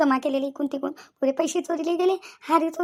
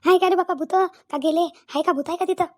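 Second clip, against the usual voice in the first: frightened; 2 semitones higher than usual. Acted. Scared woman asking if the ghosts have gone, frightened. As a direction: ask fearfully whether it is still there. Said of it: "जास्तच भिल्या थोड्या".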